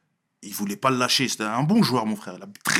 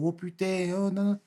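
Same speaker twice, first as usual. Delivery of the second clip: high-pitched imitation of Marseille accent; 7 semitones higher, 5 dB quieter, slower than usual. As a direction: mimic Marseillais overheard through a window, in their accent. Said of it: "j'entends les Marseillais parlant trop".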